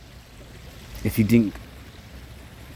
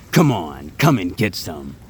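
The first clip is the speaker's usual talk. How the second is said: low gruff growl; Wolverine voice; 4 semitones lower, slower than usual. Retold or imitated. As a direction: snarl it like a feral mutant. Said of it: "Sometimes I sound like Wolverine".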